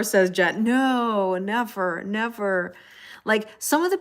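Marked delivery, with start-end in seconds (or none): 0.6-2.7 drawn-out, playful protest; mock denial. Playing along with viewer's denial.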